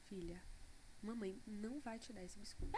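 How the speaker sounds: softly, calm and steady; gentle firm mother. Retold or imitated. Mother retelling how she told her daughter no. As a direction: crouch down and say no gently. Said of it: "me abaixei, olhei pra ela".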